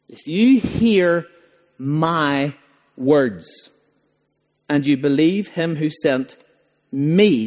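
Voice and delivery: slow, lingering emphasis on "my"; stress on my. Shown as a demonstration. Preacher quoting Jesus to stress the word "my". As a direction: lean into "my" as the offensive word. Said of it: "the offensive word was the word my".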